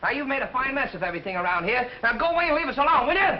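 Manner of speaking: scolding outburst that builds to a shout; angry shouting. Acted. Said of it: "You have to shout so?".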